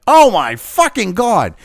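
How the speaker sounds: slow, drawn-out disbelief; exasperated. Real, not acted. Vlogger reacting to the doctor's reasoning, slow exasperation. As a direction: stretch it out in disgust.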